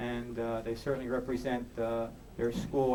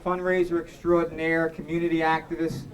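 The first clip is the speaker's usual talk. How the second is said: much higher and louder, proclaiming; proud dedication; 5 semitones higher, 7 dB louder than usual. Real, not acted. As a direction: call the names out to the whole room. Dedicating award over the room.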